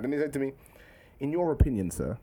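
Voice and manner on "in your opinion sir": polite pupil addressing sir; formal schoolboy impression. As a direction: imitate a proper, serious schoolboy. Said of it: "How comes you talk like this?".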